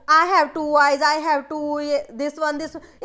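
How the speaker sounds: monotone, repetitive mock rote reading; rote recitation. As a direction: imitate students cramming out loud. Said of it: "इतना ज़्यादा ना बोल बोल के लर्न करते हैं". (रट्टा मारते हुए बोलना)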